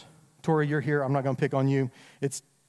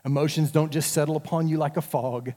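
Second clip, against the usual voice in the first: ordinary talk, nothing marked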